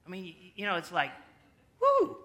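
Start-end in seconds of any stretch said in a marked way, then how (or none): 1.8-2.2 high, loud mock whoop of joy; excited whoop. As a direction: cheer like a piece just dropped in place. Puzzle high, acted cheer.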